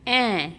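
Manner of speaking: ॲ as a short open "a" as in apple; phonic A sound. Shown as a demonstration. Teacher showing children the sound of A, ॲ as open "a". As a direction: sound out ॲ on its own. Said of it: "एचा उच्चार होतो".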